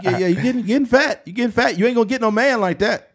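high-pitched, hammed-up blunt grandpa; mock scolding in an old grandfather's voice; grandpa impression. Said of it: "my grandpa would be like".

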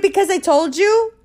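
imitated exasperated comeback. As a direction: snap it back, exasperated. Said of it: "I'm like".

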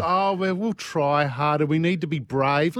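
slow, mildly mocking imitation; mock earnest platitudes. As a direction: trot out tired clichés, drawn out. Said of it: "rolling out all these cliche words".

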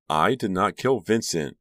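high, anguished protest; emotional outburst climbing in pitch; distraught. A narrator's reading. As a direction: plead it with rising desperation, highest at the end. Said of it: "Karina uttered a sob".

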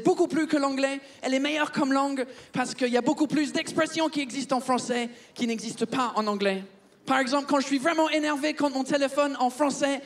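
put-on comic Englishman's accented French; earnest chat in a fake English accent. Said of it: "je vais arrêter de vous parler avec cet accent de merde".

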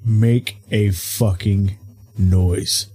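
low, slow, word-by-word threat; stern warning. Acted. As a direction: space out each word as a menacing order. Acted stern warning to keep silent.

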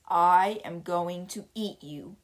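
slow, deep menacing monster; a lightly voiced slow booming monster. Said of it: "in his deep voice".

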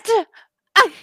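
high, loud disbelieving what; stunned what. Real, not acted. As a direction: sputter in disbelief. Disbelief at attorney quote.

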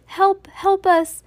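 high, loud plea for rescue; distant shout. A narrator's reading. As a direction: call out for help from far off. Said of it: "shouted a voice from far away".

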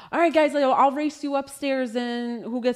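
put-on lightly rallying the kids; playful. Partner showing how to coax kids upstairs, playful. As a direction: make it sound like a fun race. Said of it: "do it in a playful way".

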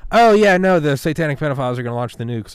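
high, loud and worked up; mock alarmed agreement. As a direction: act like you're buying into the panic. Mimics people buying into the scare.

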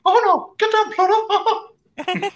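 high, slow cartoon voice; goofy high cartoon character voice. Cartoon voice bit.

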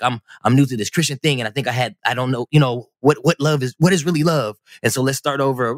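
imitating a fumbling breakup speech; re-enacted clumsy let-down; bad explanation. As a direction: stumble through an awkward excuse, restarting phrases. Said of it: "It sounded just as bad as me trying to explain it now".

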